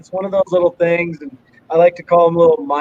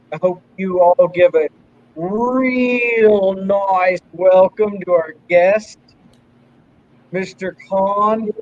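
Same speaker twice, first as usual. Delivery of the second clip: slow, stretched-out emcee intro; announcer introduction; slower than usual. Pretend. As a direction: draw out the words to introduce the guest. Host announcing the guest like an emcee.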